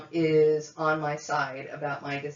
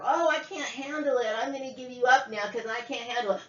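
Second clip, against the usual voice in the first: higher-pitched mock helplessness; mocking mother; 5 semitones higher than usual. Adopted woman imitating mother giving her up, mocking. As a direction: mimic a parent feebly making excuses.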